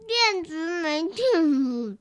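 slow, winding-down robot voice; running-out-of-battery robot. Acted. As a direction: drag it out like a dying robot. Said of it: "我很会说". (没电的机器人声音)

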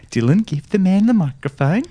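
mum voice. Retold or imitated. Mum voiced telling her son.

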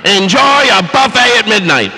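high, bright-pitched cruise ship announcer voice. Pretend. Host announcing the midnight buffet, cheesy announcer voice.

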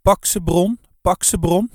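loud urging yell. A narrator's reading. Wife at the window urging her husband on, yelling. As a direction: yell the command twice, hard. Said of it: "stond te gillen".

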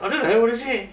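high laughing voice; giggling through the words. Real, not acted. Mocking the theory, laughing.

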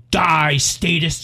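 slow, loud snarl; sudden yell. Acted. Woman turns on the man, slow angry yell. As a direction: drag out the punchline yell. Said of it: "she suddenly yelled".

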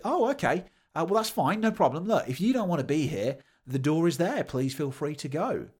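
high, breezy sarcastic politeness, settling toward the end; reply with mock-agreeable sarcasm, starting high; sweetly reasonable but sarcastic; rational sarcasm.

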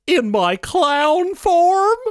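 menacing villain reveal. Acted. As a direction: stretch it out as a villain. Villain reveals clown form.

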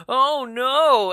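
high, loud "oh no"; mock alarm. Host imitating passengers as they swerve, mock alarm. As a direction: cry out in put-on dismay.

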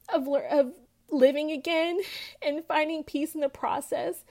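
holding back tears through the words; choked up. Real, not acted. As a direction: voice catching with emotion while testifying. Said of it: "I'm just crying out of nowhere".

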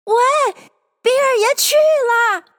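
high, drawn-out call; crowd shout. A narrator's reading. Crowd of animals as Bill flies out, shouting. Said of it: "大家齐声喝".

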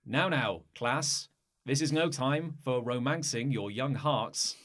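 a hint of a measured schoolteacher; teacher addressing the class, slow in the middle; lightly voiced teacher. Teacher calls a class to the maths lesson, lightly acted schoolteacher. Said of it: "now there is a teacher".

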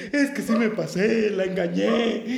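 mock weepy voice; imitated crying. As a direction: play a man blubbering his guilt. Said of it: "Empezó a llorar y empecé".

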